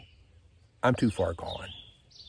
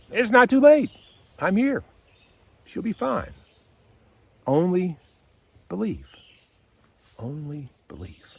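much higher and louder, proclaiming; Jesus cutting through the despair; ringing higher proclamation that fades to the last words; triumphant Jesus; 10 semitones higher, 5 dB louder than usual. Acted. Jesus answers the mourners.

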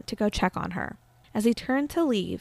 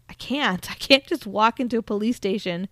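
mock-flustered pushback; exasperated protest; 2 semitones higher, 3 dB louder than usual. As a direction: protest in disbelief, climbing in pitch. Husband protests to the possessed wife.

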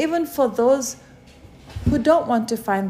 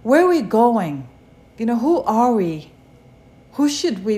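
loud appeal; 6 dB louder than usual. Acted. Preacher's rising string of questions.

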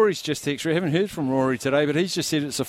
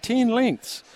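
high, drawn-out disbelief; incredulous; 10 semitones higher than usual. Real, not acted. Host reacting to listener's winning margin, incredulous. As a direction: stretch it out high, boggling at the margin. Amazed at listener's bold prediction.

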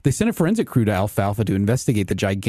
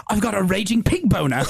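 dry Daddy Pig; 5 semitones higher than usual. Pretend. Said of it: "such a dry delivery".

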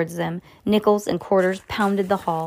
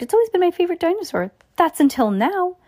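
put-on fast kid voice; 11 semitones higher, faster than usual. A narrator's reading. Sam shrugs, character voice.

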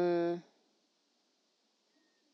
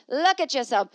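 loud; 6 semitones higher, 8 dB louder than usual. Pretend. Mirror talking to urinating man.

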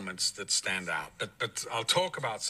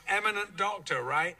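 sarcastic jab; 8 semitones higher than usual. Retold or imitated. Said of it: "I went".

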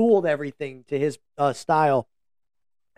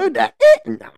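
laughing; 11 semitones higher, 6 dB louder, faster than usual. Real, not acted. Laughing burst.

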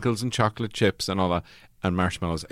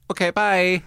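curt reply; 9 semitones higher, slower than usual. Retold or imitated. Flat Earth Society's curt reply.

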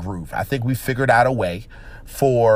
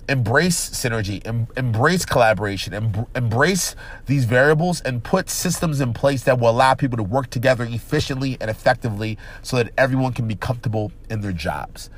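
nasal voice. Real, not acted. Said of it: "excuse me for the nasally voice".

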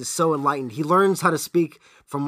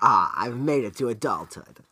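lightly put-on English accent, lower; a hint of sophisticated English; 4 semitones lower than usual. Grown-up monster with monocle and pipe, mild English accent. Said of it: "He'd have an English accent".

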